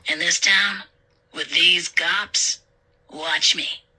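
slow, cocky robber voice; lightly voiced smug crook; chuckling robber. A narrator's reading. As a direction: draw it out as a confident villain. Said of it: "Clown Mask just chuckled".

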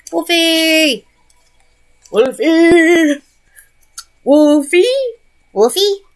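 loud, high repeated call; searching call for a pet. Real, not acted. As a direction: call the pet's name loudly. Calling for a missing pet.

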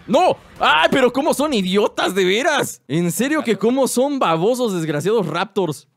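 exasperated. Real, not acted. Raptors killed.

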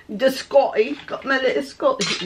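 briefly attempted mock Scottish accent; light joke Scottish accent; horrible Scottish accent. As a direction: try a bad, playful Scottish accent. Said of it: "don't even go with that accent".

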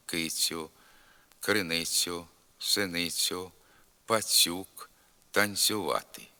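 palatalized ця and цю in горлиця, пацюк; careful soft ts in доця, криницю, танцювати; soft ц before я, ю. Shown as a demonstration. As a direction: soften ц to "tsya" and "tsyu". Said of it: "М'який також звук".

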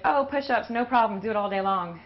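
high, loud boastful bro voice; cocky gym guy. Retold or imitated. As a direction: brag like a show-off lifter. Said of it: "you're like".

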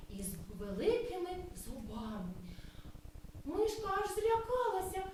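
lively, sing-song storytelling voice; story narration for children. Acted. Kindergarten teacher reading a cloud story aloud to children. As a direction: tell the tale as if to small kids.

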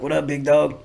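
loose, friendly impression of a buddy saying hello; Toker impression. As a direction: greet your guest as a friendly, easygoing homie. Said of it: "I'll do the voice, ... impression of Toker".

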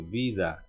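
"Vida" with a soft, barely touched V; Spanish vida, the V light as a B. Shown as a demonstration. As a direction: say "Vida" with a gentle bilabial V. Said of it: "o V sempre sutil".

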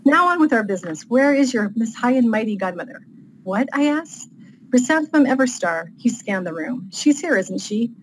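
lightly acted dialogue between plain narration; story read-aloud. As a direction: narrate a comic fantasy scene from the page. Reads aloud from own novel.

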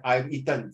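"I've eaten" as a plain closed statement; full-stop intonation. Shown as a demonstration. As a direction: end "eaten" with a falling, final tone. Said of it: "full stop".

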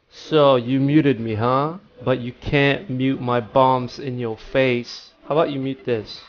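slow, quiet mock threat; mock-menacing taunt. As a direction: taunt them softly, drawing it out. Taunts player who threatened muting.

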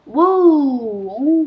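loud, high whoa; startled shout. Real, not acted. Player startled mid-game, startled shout. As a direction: shout it in sudden surprise.

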